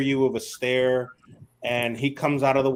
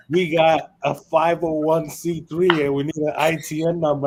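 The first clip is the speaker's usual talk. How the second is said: laughing retelling partner's words; laughing through quote; 3 semitones higher than usual. Retold or imitated. Quoting partner while laughing.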